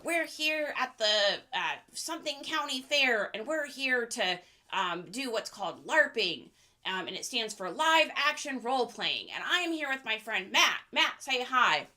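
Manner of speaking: lightly voiced nerdy kid presenter; a hint of nerdy video host; nerdy larper. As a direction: present to camera like an earnest cosplay nerd. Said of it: "That was my nerdy impression".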